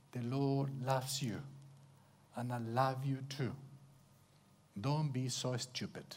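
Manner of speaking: soft, low, unhurried comfort; tender reassurance. Acted. A brother comforting a struggling friend, tender and low.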